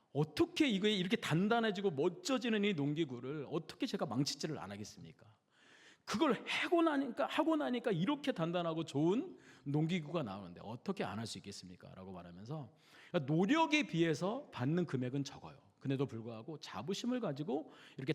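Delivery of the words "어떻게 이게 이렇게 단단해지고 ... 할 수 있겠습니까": animated, emphatic retelling of pride; proud. Retold or imitated. Blacksmith talking about his farm tools, mildly impassioned pride. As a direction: voice a craftsman's pride with raised emphasis. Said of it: "어떻게 자부심을 가지고".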